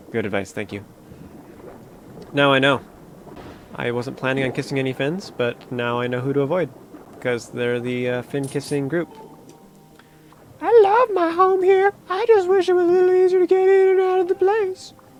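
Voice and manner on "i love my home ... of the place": very high character voice, pitched way up. Reading a game character's line aloud: Charlie the Unicorn voice. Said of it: "my, uh, Charlie the Unicorn voice".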